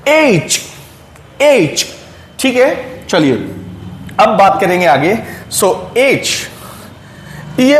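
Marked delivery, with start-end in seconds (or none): 0.1-1.9 एज said slowly, as the proper letter name; correct aitch. Shown as a demonstration. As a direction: say एज clearly as the letter H, like 'aitch'. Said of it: "इसकी pronunciation होती है एच।".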